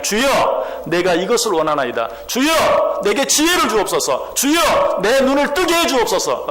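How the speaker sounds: rising, pleading cries of "주여"; fervent prayer. Shown as a demonstration. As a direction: believers crying out to the Lord in fervent prayer. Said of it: "라고 주님께 구하기만 하면".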